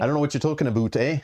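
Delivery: joking Canadian lilt; mock Canadian accent. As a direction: play up a Canadian "aboot, eh".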